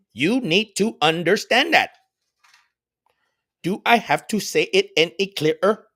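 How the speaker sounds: slow robotic sermon voice. Acted. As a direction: speak it like a stiff robot. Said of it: "You sounded like the robot on, uh, Power Rangers".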